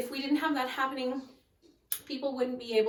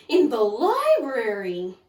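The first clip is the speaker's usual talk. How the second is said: urgent alarm; 8 dB louder, slower than usual. A narrator's reading. Frightened assistant reports lion.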